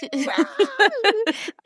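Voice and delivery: very high, drawn-out squeal; mock excited screaming. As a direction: imitate two people shrieking with excitement. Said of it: "jumping up and down and screaming".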